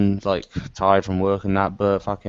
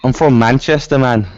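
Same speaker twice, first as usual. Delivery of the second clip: louder, higher take on a Manchester accent; English accent; 3 semitones higher, 5 dB louder than usual. Shown as a demonstration. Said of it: "here's your English accent".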